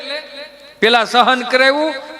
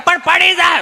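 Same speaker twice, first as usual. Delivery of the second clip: worried granny; 8 semitones higher, 3 dB louder than usual. Retold or imitated. Grandma objects to grandpa.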